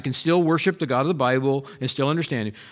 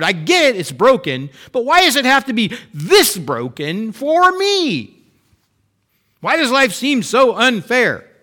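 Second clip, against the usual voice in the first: higher, louder, rising frustration; anguished complaint to God; 6 semitones higher, 5 dB louder than usual. Retold or imitated. Believer crying out at God, why me, in rising anguish. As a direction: pour out a hurt believer's protest. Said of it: "Even though I go back and say".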